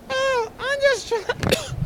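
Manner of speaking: very high, drawn-out puppet squeak; slow falsetto dummy voice; botched ventriloquist puppet voice. Pretend. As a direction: badly fake a tiny puppet talking. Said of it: "I can't do ventriloquism".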